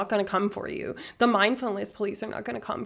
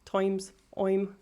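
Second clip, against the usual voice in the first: Irish vowel in "times", nearly "toimes"; exaggerated Irish vowels on single words; Irish accent. Shown as a demonstration. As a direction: demonstrate the Irish long i. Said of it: "That's how they talk".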